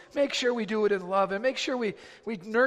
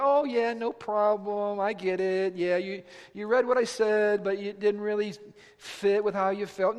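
mock leniency; 3 dB louder than usual. Mocks an all-lenient God.

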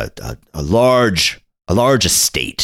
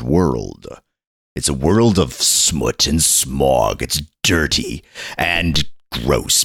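trailer announcer; slower than usual. Acted. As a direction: announce it like a dramatic TV promo. Spoofs a TV episode trailer.

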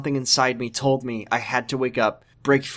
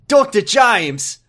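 slow, high, grand calling of the name; laughing hammed-up soap-opera reveal; slow drawn-out dramatic name call; melodramatic announcement; 7 semitones higher, 4 dB louder, much slower than usual. Mocking the dramatic character intro.

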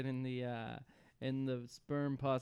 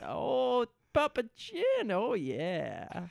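much higher, gleeful fetus voice; a tiny baby cooing over papa; mock fetus; 8 semitones higher, much slower than usual. S1 voicing the fetus.

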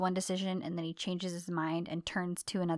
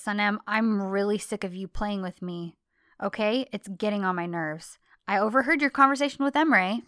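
angry confrontation; 8 dB louder than usual. Retold or imitated. John confronting Sanem about the overheard talk, loud and angry. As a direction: let the anger boil over at the end. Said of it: "And he says".

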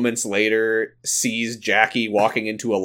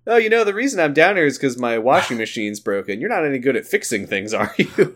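lightly voiced chatty woman, pitched up; a hint of a put-on higher voice; Jackie Tyler; 4 semitones higher than usual. Jackie hinting Elton should fix her washer, lightly imitated. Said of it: "Jackie just goes".

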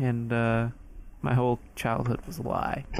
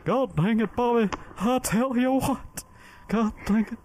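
put-on Texan accent; 10 semitones higher than usual. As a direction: play a riled-up Texas dad. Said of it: "one accent I can do really well".

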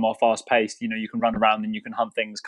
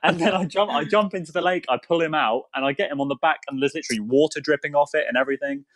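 high, eager, tumbling storytelling; excited kid rambling; 3 semitones higher than usual. Retold or imitated. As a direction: rattle it off like a thrilled kid. Thrilled retelling of hunting mishap.

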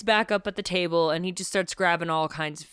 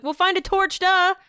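high, louder sarcastic duh; mocking duh; 12 semitones higher, 6 dB louder than usual. Tybalt mocking Pate about the torch. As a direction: talk down to him mockingly. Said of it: "Tybalt's like".

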